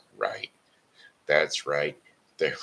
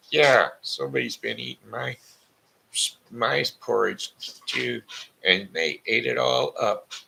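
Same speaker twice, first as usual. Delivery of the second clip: high, louder little bear voice; baby bear; 9 semitones higher, 5 dB louder than usual. Acted. Baby bear protests his porridge is gone, high and loud. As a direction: squeak it out like a tiny cub.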